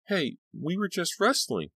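put-on high, young boy's call. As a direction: call across the lot like a kid. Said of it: "one of them called".

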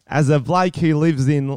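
put-on London bloke accent that comes out Australian; Australian-sounding accent.

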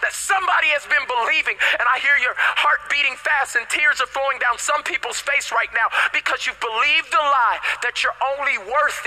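urgent, high-pitched sermon delivery; impassioned preaching. Real, not acted. Preacher addressing those who believed the lie, impassioned preaching. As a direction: preach it straight at the congregation.

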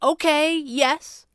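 high, tense concession; barely contained. A narrator's reading. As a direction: agree while holding agitation down. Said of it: "fighting to keep a lid on things".

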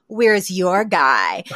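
slow, drawn-out smug challenge. Retold or imitated. Judy showing off her handsome date to Fran, smug. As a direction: stretch each word, very pleased with yourself. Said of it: "very pleased with herself".

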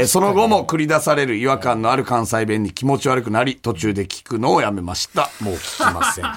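measured radio mail reading; listener letter read-out. Acted. Host reading a listener's letter about Cotton's radio show, measured read-aloud. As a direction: read the letter out evenly to the audience.

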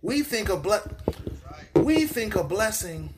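loud, high, fired-up preaching; too fired up to hold it in; worked up. Real, not acted. Preacher catches himself getting worked up before the congregation. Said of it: "let me calm down".

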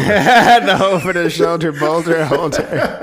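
slow, laughing repeat; cracking up while repeating it. Real, not acted.

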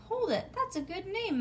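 high, sudden bright idea; light up with the new name; excited. Acted. Girl getting an idea from mother, high and excited. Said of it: "I clapped real excited".

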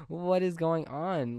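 stretched-out reenacted surprise; retold amazement. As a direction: draw it out, playfully baffled. Reacting to Winston appearing, retold.

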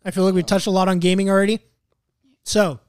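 talking while chewing; words round a bite of food; mouth full. Real, not acted. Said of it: "sorry, I'm chewing".

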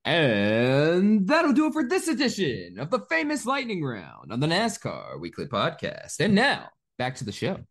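big show announcer outro. Acted. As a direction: sign off like a radio host.

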